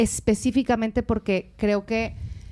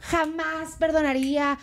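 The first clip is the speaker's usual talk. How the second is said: higher, slow proud declaration; mock haughty; 5 semitones higher than usual. Woman quoting her former self on forgiving cheating, mock haughty. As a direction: imitate your old proud self, drawn out. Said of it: "yo antes era muy soberbia de que".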